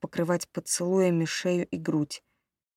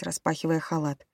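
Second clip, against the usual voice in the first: plain reading voice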